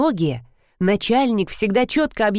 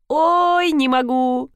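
laughing; 6 semitones higher, much slower than usual. A narrator's reading. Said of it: "Девушка расхохоталась".

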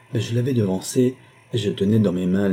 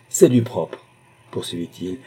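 higher, louder outburst; indignant agitation; 4 semitones higher, 6 dB louder than usual. A narrator's reading. Numa announcing scandal to his stunned family, worked up. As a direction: spit out the scandal in disgust. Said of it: "Son verbe à la fois tremblé et vibrant".

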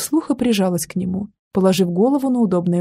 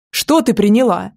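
mildly raised demanding question; 4 dB louder than usual. Acted. Man shaking the girl for an answer, mildly raised voice. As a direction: press her for an answer, a bit louder. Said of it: "повысил голос".

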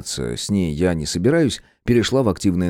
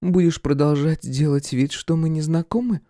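higher woman's voice, reproachful; voiced woman Irka; 8 semitones higher than usual. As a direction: needle him for pretending. Irka speaks.

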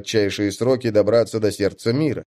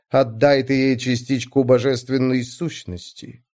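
goddess voice; 2 semitones higher than usual. Acted. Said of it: "приятный властный голос богини".

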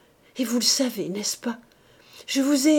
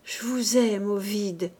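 stammering. Acted. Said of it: "balbutia-t-elle encore".

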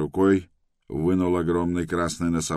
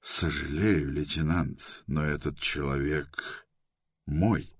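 softer, deliberately calm and steady; forced calm; 2 semitones lower, 6 dB quieter, slower than usual. A narrator's reading. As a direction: keep it as calm as you can. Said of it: "он сказал как можно спокойнее".

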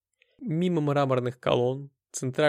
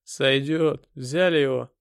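louder, commanding thug; curt order; 5 dB louder, slower than usual. Acted. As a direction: order the men to get on with it. Bully orders his helpers. (грубая команда)

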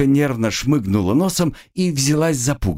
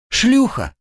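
jeering shout; 14 semitones higher, 3 dB louder than usual. Acted. Crowd jeers at prisoner.

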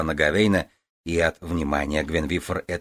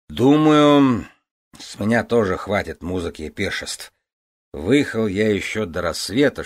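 put-on slightly drunk; 4 semitones higher, 4 dB louder than usual. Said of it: "что он пьян".

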